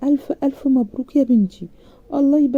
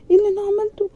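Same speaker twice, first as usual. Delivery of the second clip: panicked self-reproach; 12 semitones higher, much faster than usual. A narrator's reading. Bride panics after slamming door.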